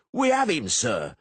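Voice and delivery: loud, high triumphant shout. Acted. Masons shouting that they have caught him.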